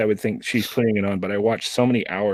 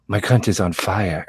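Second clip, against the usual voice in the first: Siri voice. Retold or imitated. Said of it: "a Siri type voice".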